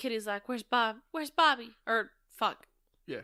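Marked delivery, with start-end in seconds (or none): 0.5-1.7 put-on young woman's voice. Recapping a movie scene, quoting a character's line in Kitty voice. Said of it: "I can't say Bobby in a normal voice".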